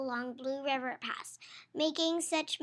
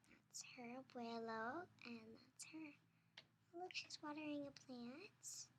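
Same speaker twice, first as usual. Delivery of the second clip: hushed whisper pointing at the page; breathy-free soft whisper aside; 17 dB quieter than usual. Real, not acted. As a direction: whisper it to the little listener.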